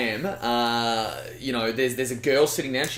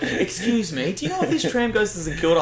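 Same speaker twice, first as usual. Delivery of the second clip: put-on much higher polite old-lady question; 8 semitones higher than usual. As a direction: mimic a sweet old lady asking. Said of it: "And they're like".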